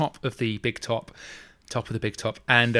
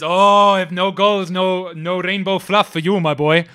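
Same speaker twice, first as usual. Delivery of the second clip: gruff vendor refusal; 5 semitones higher, 5 dB louder than usual. Acted.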